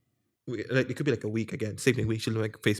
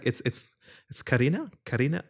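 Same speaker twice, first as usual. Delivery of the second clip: Russian-tinged Karina. Retold or imitated. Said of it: "that accent".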